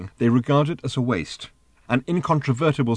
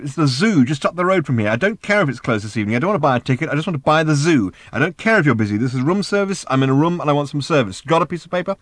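impatient phone orders, raised voice; insistent; 5 semitones higher, 4 dB louder than usual. Acted. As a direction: press the demands on a balky clerk. Ford pushing room service by phone.

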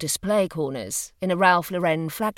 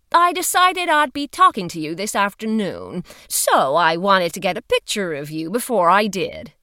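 louder, brisk official woman; firm woman's voice; 4 dB louder than usual. Acted. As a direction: speak up like a firm investigator. Female agent explaining.

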